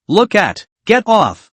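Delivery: a high, sharp shout that climbs; angry yell. Acted. Woman pinned under him yells him off. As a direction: order him off her, furious. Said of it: "gritted her teeth and yelled".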